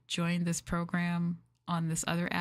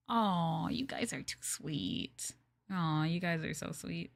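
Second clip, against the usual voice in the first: touched whisper. Real, not acted. Streamer thanking sweet chat in a slow touched whisper. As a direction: breathe it out, touched.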